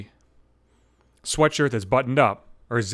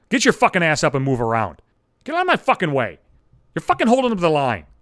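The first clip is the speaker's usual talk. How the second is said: angry; 3 dB louder than usual. Pretend. Telling off gym machine hoggers.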